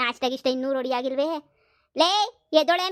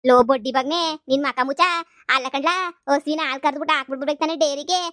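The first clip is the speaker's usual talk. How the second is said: angry scolding. Acted. Mother scolds son angrily.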